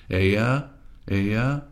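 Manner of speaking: a casual "aya", I heard you; regular aya. Shown as a demonstration. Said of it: "that's just the regular one".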